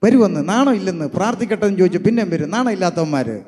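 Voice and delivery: understated retold jeering; imitated mockery. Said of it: "കളിയാക്കി പറയത്തില്ലേ".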